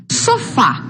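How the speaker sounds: "Sofá" with the weight on final fá; stress on last syllable. Shown as a demonstration. Teacher showing students where the tonic syllable falls, final-syllable stress on "Sofá". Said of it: "La última é a sílaba tônica".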